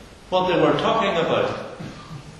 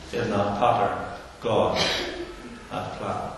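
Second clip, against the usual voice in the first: poem recital. Acted. Preacher reciting a poem to the congregation, solemn. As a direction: recite the weaver poem, fading to a hush.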